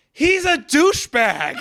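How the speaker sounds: laughing high through the insult; high laughing sneer; laughing scorn. Retold or imitated. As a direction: scoff at him with a laugh. Ranting about hated character.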